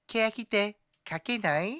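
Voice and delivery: high, slow announcer title call; show intro voice. Retold or imitated. Imitating the show intro announcer, high and slow. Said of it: "voice saying".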